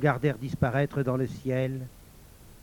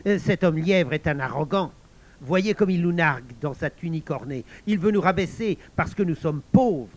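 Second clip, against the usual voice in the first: loud, scornful accusation; resentful, accusing villain; indignant rabble-rouser; 5 dB louder than usual. Acted. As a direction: stir the others up against a rival. Villain rouses others against rival.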